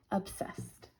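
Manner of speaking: breathy whispered obsessed. Real, not acted. Gushing over a found paper.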